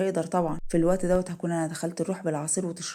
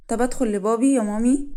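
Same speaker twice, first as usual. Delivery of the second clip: put-on high, loud little-kid request; child's voice; 4 semitones higher, 8 dB louder than usual. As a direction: ask mum eagerly like a small child. Young son asks his mother. (صوت طفل بيستأذن مامته)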